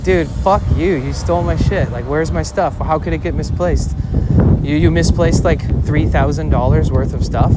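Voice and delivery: reliving yelling at the cops; angry outburst. Retold or imitated. Telling cops they stole his laptop, angry yell. Raging at police over lost stuff.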